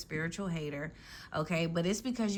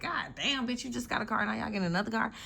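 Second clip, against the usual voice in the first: higher-pitched mock envy, half-laughing; mock jealous friend; 4 semitones higher, faster than usual. Jealous friend to a lucky one, higher mock envy. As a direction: play the jealous friend gasping at a new house. Friends envying your upgrades.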